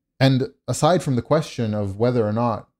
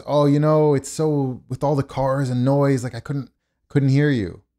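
slightly higher, excuse-making imitation; lightly voiced salesman; 4 semitones higher than usual. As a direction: lightly mimic someone offering an excuse.

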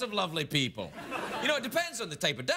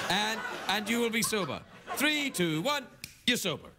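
mock hypnotist. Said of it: "sober you up using hypnotic power".

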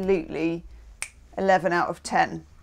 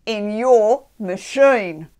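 put-on slow, drawn-out jokey Australian accent; playful fake Australian accent; mock Australian accent; 6 dB louder, much slower than usual. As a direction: ham up an Australian twang, louder. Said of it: "everybody's half Australian today".

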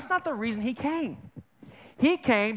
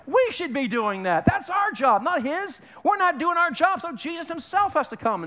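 much higher and louder, indignant outburst; imitating upset friend; 7 semitones higher, 4 dB louder than usual. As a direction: retell his exasperated protest in a raised voice. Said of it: "He gets upset".

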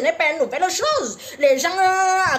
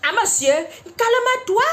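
slow, higher, soothing plea; calming him down; 6 semitones higher, slower than usual. Retold or imitated. Host soothing an angry male caller, slow and coaxing. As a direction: ease an upset man down, slowly.

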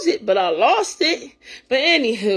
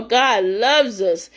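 slow emphatic; much slower than usual. Real, not acted. Preaching God's love.

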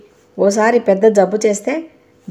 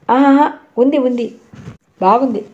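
higher, laughing through the words; chuckling; 4 semitones higher than usual. A narrator's reading. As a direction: tease him with a light chuckle. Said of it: "చిన్నగా నవ్వుతూ అన్నాడు రఘుపతి".

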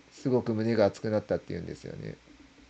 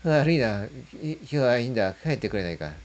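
forced-out voice; 4 semitones higher than usual. Retold or imitated. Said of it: "出せない声を思い切り出して".

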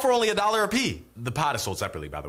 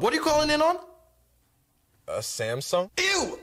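snobby disgust; 9 semitones higher than usual. Acted. Snobby Apple host judging phone.

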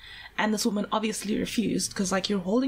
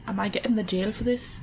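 lilting Irish-sounding attempt at Scottish; Irish-leaning Scottish impression; Irish-ish accent. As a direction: try a Scottish voice, slips into Irish. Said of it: "No, that's Irish".

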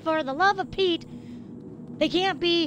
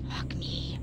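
defeated sigh; 13 dB quieter than usual. Real, not acted. Defeated after hard section.

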